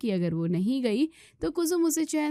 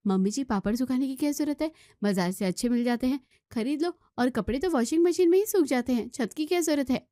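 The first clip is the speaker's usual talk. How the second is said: put-on higher, innocent young wife voice; young daughter-in-law; 4 semitones higher than usual. Daughter-in-law answering mother-in-law, higher young wife voice. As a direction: sweetly explain away the mess. Maya argues back.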